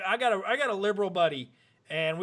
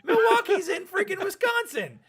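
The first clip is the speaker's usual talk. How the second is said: higher, slower, half-laughing insistence; exasperated laughing correction; 11 semitones higher than usual. Retold or imitated. Retelling an argument to podcast friends, exasperated laughing correction. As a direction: spell it out like he's hopeless.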